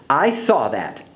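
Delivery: slow, reproving teacher; understated telling-off, slowing at the end; scolding. Acted. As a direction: draw out a mild scolding. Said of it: "scolded Miss Briggs".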